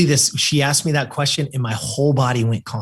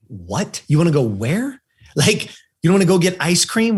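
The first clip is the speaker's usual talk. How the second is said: incredulous mom; 3 semitones higher than usual. Retold or imitated. Mom baffled by son's store request, incredulous. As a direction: question it as if he were crazy. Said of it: "looked at me like I was crazy".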